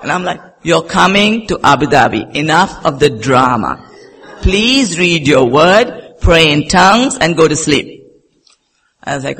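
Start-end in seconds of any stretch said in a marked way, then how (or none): 0.6-8.0 loud, emphatic acted commands; stern retold orders. Pastor husband ordering his wife to bed, loud and stern. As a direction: lay down each instruction firmly, mimicking him.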